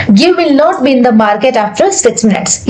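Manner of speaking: slow, word by word for learners; slow dictation. Shown as a demonstration. Teacher dictates sentence slowly to the class. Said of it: "ये आपका sentence है".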